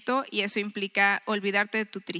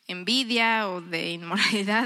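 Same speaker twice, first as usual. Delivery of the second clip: confiding whisper. Real, not acted. Listing sins to the women, dropped to a whisper.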